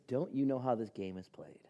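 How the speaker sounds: hushed, knowing whisper; conspiratorial whisper. Retold or imitated. Friend shares his ticket scheme in a conspiratorial whisper. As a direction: whisper it like sharing a trick. Friend's condescending secret plan.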